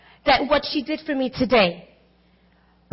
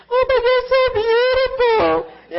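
much higher, slow, choked-up praise; tearful admiration; 11 semitones higher, 4 dB louder, slower than usual. Retold or imitated. Mother to her dancing daughter, tearful, high and slow. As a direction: gush through tears at your daughter. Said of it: "And I just started to weep".

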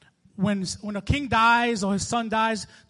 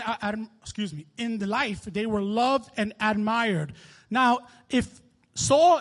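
impassioned scripture reading; 4 dB louder than usual. Acted. Preacher reading Saul's lament to the congregation, building to a loud plea. Reads scripture with rising force.

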